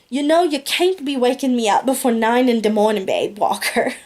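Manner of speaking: lightly voiced Jamaican patois; a hint of a Jamaican lilt. Nanny scolding sleepily in light Jamaican patois. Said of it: "she said in her native Jamaican dialect".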